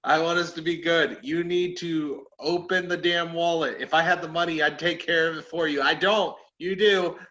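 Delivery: heated, emphatic pleading rant; exasperated demand, playfully overdone; mock arguing. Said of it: "I started arguing with him".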